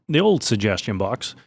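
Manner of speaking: mocking tone. Real, not acted. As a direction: poke gentle fun at it. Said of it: "I'm saying that in a mocking tone".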